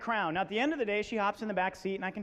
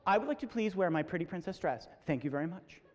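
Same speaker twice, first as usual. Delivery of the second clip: lower, measured mock confidence; confident little girl; 5 semitones lower, 4 dB quieter than usual. Six-year-old announcing picture day to her parents, very confident. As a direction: imitate a composed, assured child. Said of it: "very confident".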